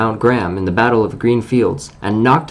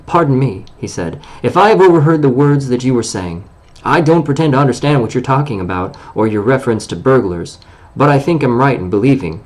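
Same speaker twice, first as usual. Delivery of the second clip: on his dignity; 2 semitones higher than usual. Acted. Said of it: "what he called being on his dignity".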